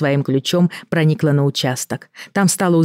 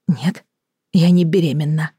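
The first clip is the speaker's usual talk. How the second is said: trembling voice. Acted. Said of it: "дрогнувшим голосом ответила Елена".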